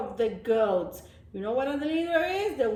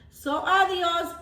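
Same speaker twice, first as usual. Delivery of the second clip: sing-song goodbye; 6 semitones higher, 4 dB louder than usual. Acted. Friends walk off from goat, high adios. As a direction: tease a goodbye.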